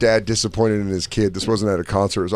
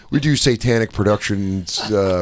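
salesman voice; 4 semitones lower than usual. Retold or imitated. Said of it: "He goes".

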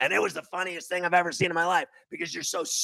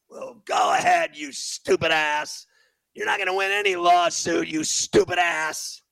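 angry yell; 3 semitones higher, 3 dB louder than usual. Real, not acted. Host yelling at the woman threatening to sue, angry yell. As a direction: bark the insults right back.

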